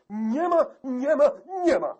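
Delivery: very high, loud furious repeated refusal; shouting. A narrator's reading. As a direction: yell it, stamping about the room. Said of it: "Krzycząc chodził, tupał nogami".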